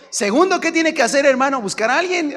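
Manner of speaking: high, loud pulpit cry; fiery preaching. Real, not acted. Preacher exhorts the congregation, loud and high. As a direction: drive the point home to the church.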